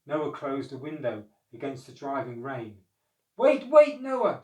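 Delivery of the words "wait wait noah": high, loud plea; animals shouting. A narrator's reading. Animals shouting at Noah, high and loud. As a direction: shout to stop him. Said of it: "shouted the animals".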